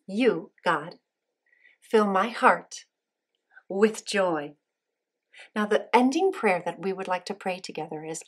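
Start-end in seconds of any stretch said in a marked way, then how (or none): 0.1-4.6 put-on slow, spaced words for kids to repeat; slow call-and-response prompt. Shown as a demonstration. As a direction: lead the phrase slowly for children. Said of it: "Can you say that with me?".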